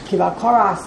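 "Kiva Koras" with emphasis on "Ko"; "Kiva Koras" stressed on "Ko", as remembered from a tape; stress on the kuf. Retold or imitated. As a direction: hit the first syllable of "Koras". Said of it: "He puts the emphasis on the Kuf".

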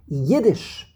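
Yiddish with YID stressed; first-syllable stress. Shown as a demonstration. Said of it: "emphasis is on the first syllable".

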